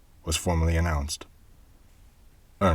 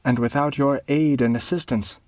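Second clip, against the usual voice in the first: pleading baron; 9 semitones higher, 3 dB louder than usual. A narrator's reading. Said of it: "continued Ernest".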